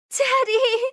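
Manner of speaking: high, loud desperate cry; shrill daughter's cry of daddy. Acted. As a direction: call out to him with relief and fear. Daughter rushes to injured father.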